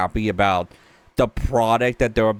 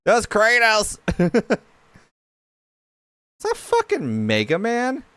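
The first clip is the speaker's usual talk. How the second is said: surprised recognition; 9 semitones higher than usual. Real, not acted. Recognising characters in the trailer.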